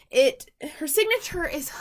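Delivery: breathless, between gasps; out of breath. Real, not acted. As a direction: talk while catching breath. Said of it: "I'm out of breath".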